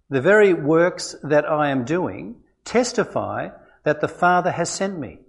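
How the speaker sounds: measured Bible reading in Jesus' words; calm, deliberate reading of scripture. Acted. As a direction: read the passage steadily and reverently. Reads John chapter five aloud.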